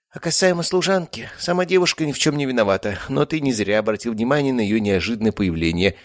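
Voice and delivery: high cat voice, confiding; a tomcat sharing a secret; cat werewolf voice. A narrator's reading. (высоко, по-кошачьи)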